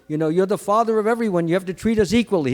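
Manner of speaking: quick, pushy mock demand; a hint of an entitled complainer. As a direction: insist on your rights, rushing a little. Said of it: "He didn't demand".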